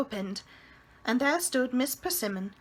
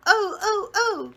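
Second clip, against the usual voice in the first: much higher, louder breathless gasps; girl gasping, hand on heart; gasping laughter; 10 semitones higher, 7 dB louder, slower than usual. A narrator's reading. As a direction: gasp out of laughter. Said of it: "gasped for breath".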